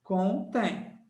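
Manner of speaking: "contém" parted as con, tém; split into syllables. Shown as a demonstration. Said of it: "separa a sílaba".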